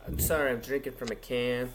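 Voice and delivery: a hint of mom apologizing after a burp; mom's belch excuse. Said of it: "that's my mom".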